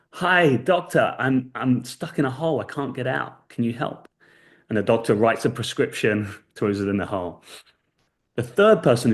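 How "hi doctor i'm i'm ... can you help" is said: mild mock shout. Man in a hole hails a passing doctor, mild mock shout. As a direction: lightly imitate calling up for help. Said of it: "shouts up and says".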